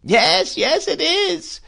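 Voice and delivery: high, slow wailing widow; crying out plaintively. Acted. Mrs Gummidge wails to Peggotty, high and slow. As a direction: wail it in self-pity. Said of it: "cried Missus Gummidge".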